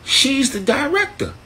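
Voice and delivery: a high aha about the director; realizing. Retold or imitated. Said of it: "So I said".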